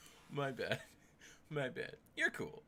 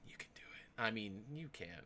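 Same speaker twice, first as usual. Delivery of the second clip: whispered taunt; taunting Sark in a whisper; 3 semitones lower, 6 dB quieter than usual. Real, not acted. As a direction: whisper the dare softly. Whispered dare.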